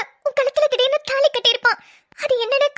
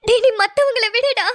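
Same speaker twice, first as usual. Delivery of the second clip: sobbing scold; crying. Acted. Bride sobbing at her best friend. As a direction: cry out the words.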